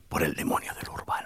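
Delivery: low, whispery demonic answer; spooky hushed reveal. Pretend. Author answering who possesses the cities, in a mock-sinister whisper.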